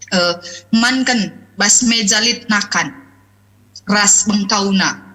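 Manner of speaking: pelan dan lembut, nada rendah. Shown as a demonstration. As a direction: ucapkan dengan intonasi halus dan pelan. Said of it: "orang banyak menerjemahkan lembut itu sebatas pada intonasi". (contoh kalimat yang diucapkan lembut dan pelan)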